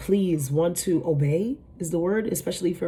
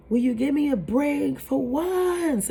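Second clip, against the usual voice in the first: mock scream at God; 9 semitones higher than usual. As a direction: imitate a fed-up man crying out to God. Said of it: "And he was just screaming".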